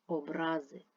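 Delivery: образи with the middle -ра- stressed; stress on second syllable. Shown as a demonstration. Teacher contrasting word meanings, second-syllable stress on образи. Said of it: "мають різний наголос".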